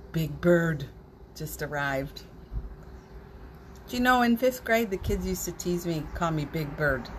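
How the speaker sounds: ordinary talk, nothing marked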